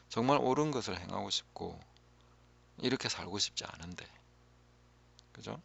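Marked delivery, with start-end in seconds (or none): none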